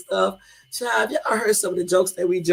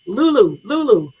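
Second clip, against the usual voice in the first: higher and louder sing-song Lulu; calling nickname; 7 semitones higher, 7 dB louder than usual. Retold or imitated. Husband calling her nickname on the phone, sing-song. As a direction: call her name teasingly, rising. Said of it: "He be like".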